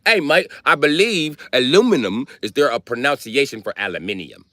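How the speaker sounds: mock British accent; lightly put-on British voice, querying. Brit questioning an American's word, mock British accent. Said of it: "And the British is like".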